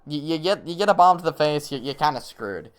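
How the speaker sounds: slipping into a light New York accent; Zoomer New York accent. Real, not acted. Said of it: "I said that with, like, a redeemed Zoomer New York accent".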